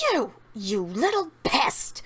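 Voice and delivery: slow, drawn-out scolding without real volume; mock scream. Winifred at the kid who spilled the potion, mock scream. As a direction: act out an understated witch's scream. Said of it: "Winifred screams".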